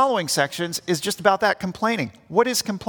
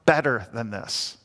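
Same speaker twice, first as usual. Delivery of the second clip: bad attitude; 5 semitones lower than usual. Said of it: "with a bad attitude".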